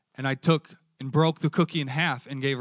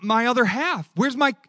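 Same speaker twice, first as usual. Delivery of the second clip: put-on higher, plaintive little-girl voice; voicing a child's feeling; 9 semitones higher, 5 dB louder than usual. Preacher voicing what his daughter feels, higher plaintive child. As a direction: ache like a child missing her other half. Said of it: "her feeling would be like".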